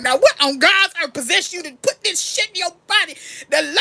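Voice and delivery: put-on loud, high, scandalized old grandma; a hammed-up shocked grandmother; grandma scolding. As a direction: play grandma aghast and scolding. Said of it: "my grandma was like".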